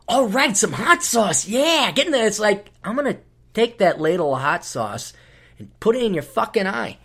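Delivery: high peppy voice going menacing; forced cheery server. Retold or imitated. Server serving hot sauce, peppy then menacing.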